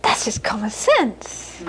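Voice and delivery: a dry "That's just common sense."; matter-of-fact mother. Retold or imitated. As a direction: settle it plainly and calmly. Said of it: "She'd say".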